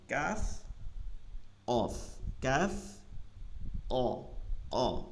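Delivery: Arabic letters thin kaf and heavy qaf, drilled in contrast; thin kaf versus heavy qaf. Shown as a demonstration. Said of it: "কাফটা চিকন, কফটা ভারী".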